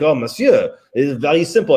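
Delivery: put-on lightly French-accented English; French chef accent. French chef answers a curious diner, imitated French accent. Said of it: "you know, in his French".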